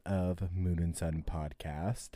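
slow, whispered deep sign-off. Acted. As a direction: drop the voice low and slow. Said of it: "Your voice got really deep".

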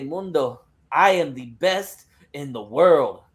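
put-on boastful title challenge in a Spanish accent; Thunder Rosa, accented promo. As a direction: promise the takeover, Spanish-accented. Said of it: "allowed to do this accent".

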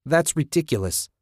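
high-pitched, contained shout; indignant shout. A narrator's reading. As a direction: shout it in outraged disbelief. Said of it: "Susan shouted".

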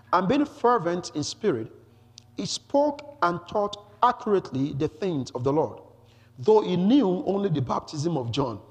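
measured, emphatic public reading; scripture reading. Acted. Preacher introduces Apollos from the scriptures, emphatic scripture reading. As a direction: read it out deliberately for the listeners. Reads the verse aloud.

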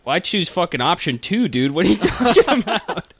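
rising disbelief, laughing at the end; can't believe what he's hearing; incredulous. Retold or imitated. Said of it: "I was like".

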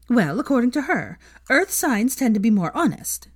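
excited. A narrator's reading. Veronica sharing Luna's zodiac theory, excited. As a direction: launch into the gossip eagerly. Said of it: "Veronica began excitedly".

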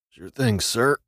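a weak, worn-out croak. A narrator's reading. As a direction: rasp it out like your throat is full of sand. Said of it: "I croaked".

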